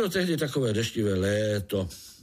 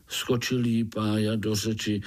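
usual speaking voice

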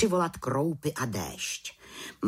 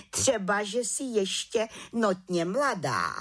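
head witch ruling; 8 semitones higher than usual. A narrator's reading. Head witch pronounces verdict.

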